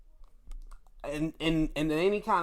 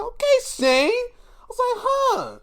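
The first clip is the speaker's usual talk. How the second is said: high puzzled okay; 7 dB louder, slower than usual. Retold or imitated. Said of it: "I'm like".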